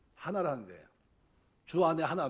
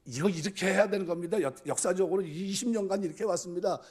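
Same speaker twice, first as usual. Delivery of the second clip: louder, higher, digging the heels in; mock stubborn church member insisting; stubborn insistence; 4 semitones higher, 4 dB louder than usual. Long-time member refusing to give way, stubbornly insisting. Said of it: "자기 고집 부리지 말고".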